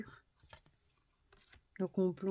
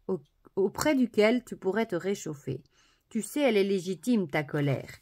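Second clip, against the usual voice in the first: inspirational reading; 3 dB louder than usual. Acted. Reading the card's text to viewers, heartfelt. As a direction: read it like a heartfelt affirmation. Reads card message to viewer.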